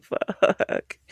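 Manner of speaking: mild mock curse. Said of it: "I was like".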